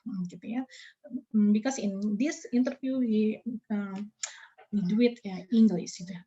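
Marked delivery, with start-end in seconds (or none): 1.5-6.0 slow English. Shown as a demonstration. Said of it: "menggunakan bahasa Inggris".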